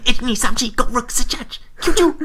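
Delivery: high-pitched mock martial-arts count; counting while punching. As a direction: imitate a kid sensei squeaking out counts. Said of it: "He was counting at the same time".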